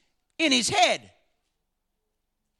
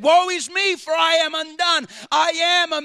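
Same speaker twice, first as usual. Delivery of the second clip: louder, ringing woe is me; proclaimed aloud; 3 semitones higher, 3 dB louder than usual. Acted. Preacher voicing Isaiah's confession, loud proclamation. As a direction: declare it out loud to the crowd. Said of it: "He said".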